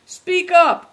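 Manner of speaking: high, loud command; cried out. A narrator's reading. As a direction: shout it as a sharp demand. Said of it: "cried Greencoat".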